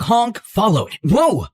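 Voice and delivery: plain reading voice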